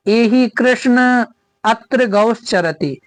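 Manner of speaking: "एहि कृष्ण" with the final ण of कृष्ण drawn out long, slow; slow Sanskrit recitation, "कृष्ण" held long; pluta call demo. Shown as a demonstration. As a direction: stretch out "कृष्ण" as if calling someone far off. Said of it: "जोर लगा करके बोलना पड़ेगा".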